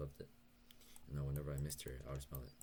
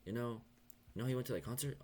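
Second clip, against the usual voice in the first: much higher, louder teasing imitation; gleeful mock accusation, pitched way up; mock teasing dentist; 9 semitones higher, 5 dB louder than usual. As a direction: ham up the dentist's gotcha question. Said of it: "she was like".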